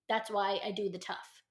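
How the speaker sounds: normal talking voice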